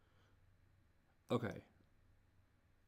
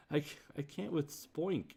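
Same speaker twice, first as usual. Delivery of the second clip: laughing; 5 semitones higher than usual. Real, not acted. Laughing at the word spoink.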